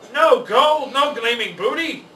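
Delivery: loud, high outraged pirate roar; furious pirate. A narrator's reading. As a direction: bellow in frustration at the empty loot.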